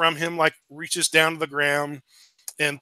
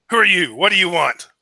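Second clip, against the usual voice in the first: gruff giant voice; 4 dB louder than usual. Acted. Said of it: "one of them says in Giant".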